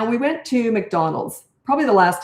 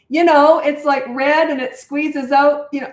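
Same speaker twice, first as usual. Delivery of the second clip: getting louder; 7 semitones higher, 5 dB louder than usual. Retold or imitated. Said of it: "my voice was starting to get louder".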